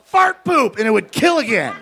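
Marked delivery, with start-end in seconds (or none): 0.0-0.8 high, mock kid yell; shrill little heckler shout; kid's yell. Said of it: "again yell".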